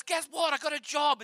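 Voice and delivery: high, bright burst of imitated excitement; excited news. Christy calling to share her good news, excited. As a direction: bounce up on "Guess what".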